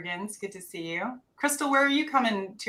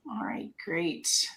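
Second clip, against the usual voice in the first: whispering; 2 semitones lower, 6 dB quieter, much slower than usual. Real, not acted. Aside off mic.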